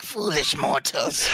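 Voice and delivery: slow, slightly high ghost line; slightly high-pitched ghost. Shown as a demonstration. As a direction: show a thinner spooky voice. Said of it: "a slightly high-pitched".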